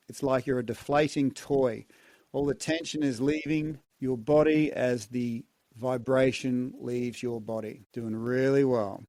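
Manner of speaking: calm, soothing relaxation guide. Shown as a demonstration. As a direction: ease them into release gently. Relaxation after the hum.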